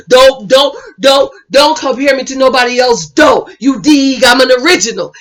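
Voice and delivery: imitating a slangy, insistent man; stuttered, repetitive mock protest; Hollywood. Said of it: "Here go Hollywood".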